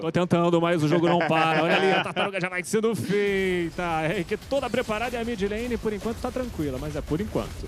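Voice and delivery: loud, shouted over the noise; shouting. Real, not acted. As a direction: yell to be heard over the crowd. Correspondent shouting from event floor.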